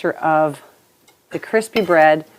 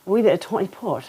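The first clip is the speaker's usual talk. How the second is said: lightly put-on Scottish accent, softer; a hint of a Scottish "wee bit"; 4 dB quieter than usual. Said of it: "what accent to use with that".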